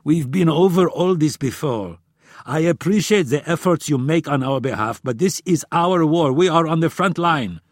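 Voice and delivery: loud, high, insistent tirade; heated argument. A narrator's reading. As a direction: press each point forcefully in frustration. Frustrated Friedman argues his case.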